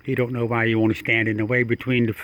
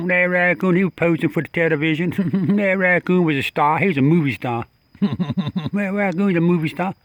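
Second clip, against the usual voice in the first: laughing; 5 semitones higher, 3 dB louder than usual. Real, not acted. Laughing at posing raccoon.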